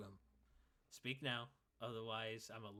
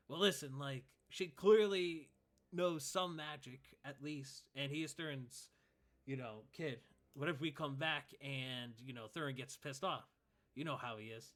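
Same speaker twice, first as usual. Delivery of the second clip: raised, slowed pleading with his fellow; uneasy elf guard; 3 semitones higher, 5 dB louder than usual. Acted. Nervous elf guard arguing with the first guard, pleading. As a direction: talk the others out of it, worried. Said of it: "the second guy say".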